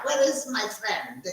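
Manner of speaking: Where said with a South African lilt, falling; a touch of South African on Where; South African accent. Pretend. Host asking again for his friend in South African accent. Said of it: "accent from South Africa".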